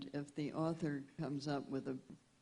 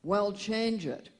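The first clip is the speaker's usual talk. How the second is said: loud, high, drawn-out retort from a novelist; novelist dictating; 5 semitones higher, 8 dB louder, slower than usual. Retold or imitated. Tipsy romance novelist to her secretary from behind a screen, loud drawn-out retort. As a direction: call it out slowly, raised and imperious. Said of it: "And the voice would go".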